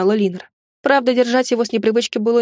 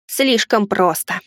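doomed moan; slower than usual. Acted. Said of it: "обречённо простонал дух".

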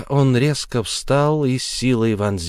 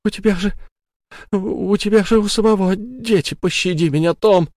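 desperate pleading; 11 semitones higher than usual. Acted. Sara begs Tom to spare her, desperate. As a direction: throw yourself on his mercy.

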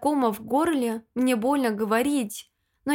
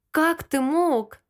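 slow, higher cry mixed with tears; crying shout; 4 semitones higher, slower than usual. Acted. To Lyosha who betrayed her, a tearful slow outcry. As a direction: burst out at him, sobbing. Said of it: "Взрываюсь криком вперемешку с новым плачем".

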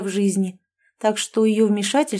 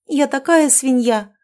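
higher, louder, slow heartfelt cry; sincere exclamation; 6 semitones higher, 5 dB louder than usual. Acted. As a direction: exclaim it with real remorse. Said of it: "воскликнула она, на сей раз искренне".

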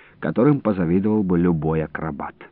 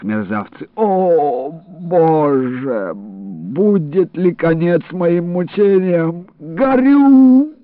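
pained rage; 6 semitones higher, slower than usual. Acted. Wounded man raging, moaning.

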